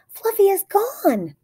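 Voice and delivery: high, slow distressed wail; upset cry. A narrator's reading. Emma telling dad pet is gone, high slow dismay. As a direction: drag it out in dismay. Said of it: "she cried".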